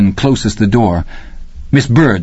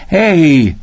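put-on much higher, a boy getting scared; frightened kid's rising questions; bewildered, frightened; 12 semitones higher than usual. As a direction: voice climbing with worry. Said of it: "bewildered and a little frightened".

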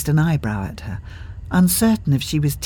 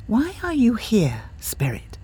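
wary, whispered question; suspicious whisper; 8 semitones higher, 4 dB quieter than usual. A narrator's reading. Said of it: "looked at Henry suspiciously".

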